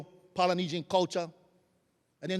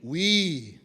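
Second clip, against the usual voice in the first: call and response; 10 dB louder, much slower than usual. Shown as a demonstration. Speaker leads the hall in a call-and-response chant. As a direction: chant it back and forth with the room. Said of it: "So repeat after me".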